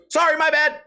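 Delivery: put-on high timid kid voice; mock kid apology. Timid kid passing the comedian, high apologetic. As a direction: squeak out a nervous sorry.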